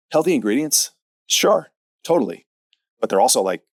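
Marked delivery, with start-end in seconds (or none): 0.1-2.4 higher, sarcastic mock agreement. Coach mocking the healthy-food excuse, sarcastic and higher. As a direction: roll your eyes as you agree, higher. Mocking the claim about acai bowls.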